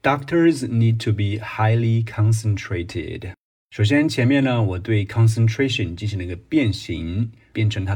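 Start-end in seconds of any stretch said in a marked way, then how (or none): 0.0-3.3 slow, deliberate read of "Doctors need to be highly concentrated", stressing "Doctors"; slow model answer. Shown as a demonstration. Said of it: "我就给出正确的回答". (缓慢清晰地示范朗读)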